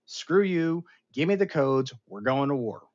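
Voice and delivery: half-mocking command to go to war; mock order. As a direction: bark the order like a reckless leader. Retelling the president's sudden order.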